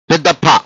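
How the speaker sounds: "ఫ" pressed as p with a puff of air; pressed aspirated sound. Shown as a demonstration. Teacher modelling the big letter for learners, "ఫ" pressed and aspirated. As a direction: stress the breathy release of "ఫ". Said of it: "ఒత్తి పలకాలి".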